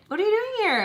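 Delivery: high-pitched excited squeal of a greeting; imitating her excitement. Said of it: "all excited".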